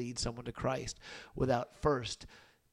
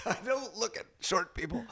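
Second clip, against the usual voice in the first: higher, laughing mock aloof voice; mock haughty Jesus; 7 semitones higher than usual. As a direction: play it as a snooty joke. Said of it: "Jesus refuses to look down".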